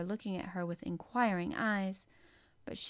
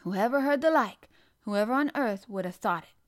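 astonished; 2 semitones higher, 7 dB louder than usual. A narrator's reading. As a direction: gasp at the noise in amazement. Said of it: "she was so astonished".

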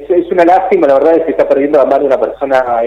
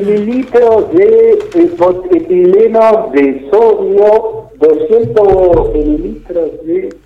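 in the bathroom; 3 semitones higher, much slower than usual. Real, not acted. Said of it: "Se lo escucha raro, eh, se escuchan sonidos".

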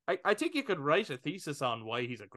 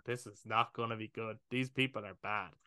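creeped out hush; 3 semitones lower, 5 dB quieter than usual. Retold or imitated. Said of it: "And I'm like".

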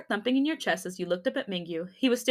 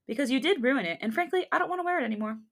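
Ken; 4 semitones higher than usual. Acted. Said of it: "That was very Ken".

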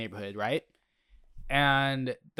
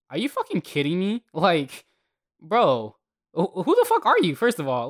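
higher and louder outraged retelling; retold outrage at a dogfight offer; 5 semitones higher, 4 dB louder than usual. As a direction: blast the man in disbelief.

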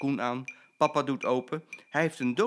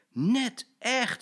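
said laughing; 12 semitones higher, 5 dB louder than usual. Acted. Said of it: "zegt hij lachend".

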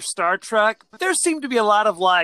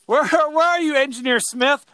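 higher-pitched searching call; mock calling out; 6 semitones higher, 4 dB louder than usual. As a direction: call out for a missing crewmate. Acting crewmate calling for missing colleagues.

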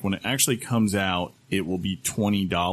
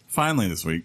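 strained, groaning dinosaur-like read; like a wounded dinosaur croaking it out. Acted. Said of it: "you sound like a dinosaur that's been shot".

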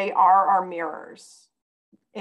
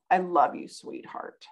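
tender. Retold or imitated. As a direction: whisper love to a little girl. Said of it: "I said".

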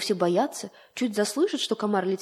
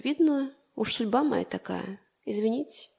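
quietly offended, giving up; mild sulky resignation; hurt; 3 dB quieter than usual. Acted. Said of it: "говорит он гостям обидчиво". (обидчиво, тихо)

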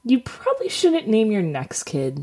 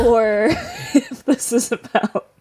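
laughing; 5 semitones higher than usual. Real, not acted. Amused at the weird story.

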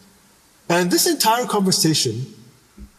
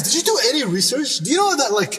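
indignant inner rant; 4 semitones higher than usual. Retold or imitated. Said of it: "all I'm thinking in my head is".

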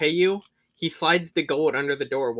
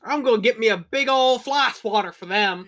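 higher, louder dopey voice; dopey character; 6 semitones higher, 6 dB louder than usual. Retold or imitated. Friend voices the dopey investigator, higher and louder. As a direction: join in as the clueless oaf.

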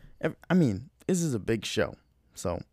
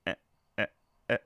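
imitating a singer; 7 semitones higher, much faster than usual. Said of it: "was like".

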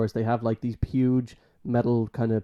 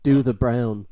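louder nasal "Do the brown"; nasal boss voice; 6 dB louder, slower than usual. Retold or imitated. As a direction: mimic the boss's nasal order. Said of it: "nasally voice".

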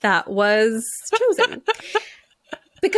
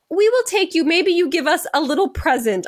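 hint of Italian English; 5 semitones higher than usual. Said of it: "in her English".

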